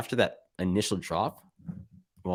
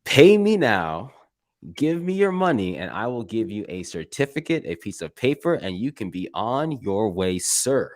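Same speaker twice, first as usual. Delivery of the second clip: mock class salesman. Mocking what your class is gonna tell you, lightly acted hard sell. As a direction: lightly play a money-grabbing school, spelling it out. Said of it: "what your class is gonna tell you".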